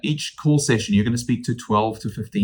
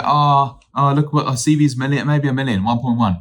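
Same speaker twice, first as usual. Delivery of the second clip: flustered agent; 4 semitones higher, 4 dB louder than usual. Retold or imitated. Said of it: "some agents will say".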